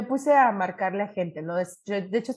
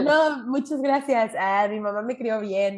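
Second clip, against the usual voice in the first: laughing refusal; slower than usual. Retold or imitated.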